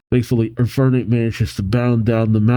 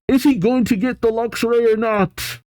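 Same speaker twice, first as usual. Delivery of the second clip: much higher, thrilled asking; excited eager question; 11 semitones higher than usual. Real, not acted. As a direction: beg to know, bursting with hope. Fan eager about Luxray joining.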